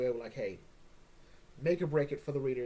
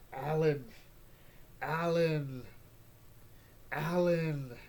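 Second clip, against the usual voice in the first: disappointed repeated name; much slower than usual. Retold or imitated. Mocking Alan's foolishness.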